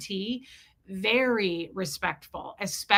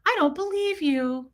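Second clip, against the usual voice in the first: mock defensive parent; 4 semitones higher, slower than usual. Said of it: "one of those parents".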